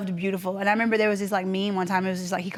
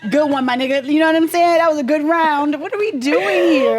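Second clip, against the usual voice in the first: mock bro in bed; 5 semitones higher, 6 dB louder than usual. Mock dapping partner in bed.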